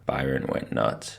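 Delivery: plain reading voice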